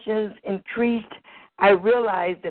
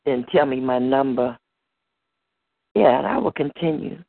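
deeper, teasing lover; lightly voiced lover, lower; lower seductive lover voice; 5 semitones lower than usual.

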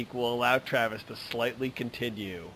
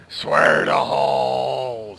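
mock solemn oath; much slower than usual. Mock oath, slow and drawn.

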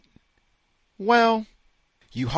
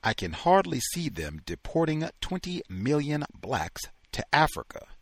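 ordinary delivery

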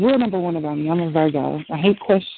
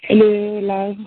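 loud, shaky attempt at a British greeting; unconvincing British accent; 2 semitones higher, 5 dB louder, much slower than usual. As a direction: try a British accent, not quite real. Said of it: "I have so many British friends".

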